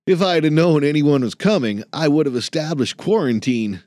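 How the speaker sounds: put-on a fussy young clerk, a bit above the narration; lightly voiced anxious student; nervous young man. Jason, young work-study voice.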